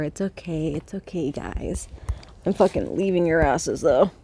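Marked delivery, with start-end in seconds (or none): 0.0-1.9 hushed whisper to the hens. Real, not acted. To the chickens, a soft reassuring whisper. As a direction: breathe it, barely voiced.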